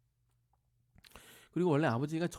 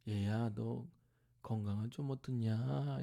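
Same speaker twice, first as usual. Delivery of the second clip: tender father; 2 semitones lower, slower than usual. Retold or imitated. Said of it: "사랑스럽게 시아버지가 며느리한테 물어보듯이".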